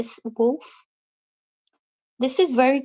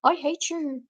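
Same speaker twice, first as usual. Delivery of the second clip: mock telling-off; 4 semitones higher than usual. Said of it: "like, ear bashing".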